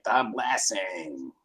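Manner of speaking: slow, drawn-out lightly done Cage delivery; Nicolas Cage line. Retold or imitated. Imitating Nicolas Cage's line to a friend, slow mock Cage. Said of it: "he makes this weird".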